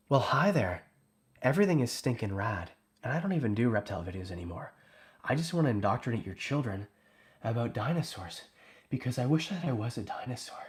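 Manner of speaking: lightly voiced laid-back YouTuber; Clint impression. Livestreamer doing an impression of Clint for chat. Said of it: "This is Clint".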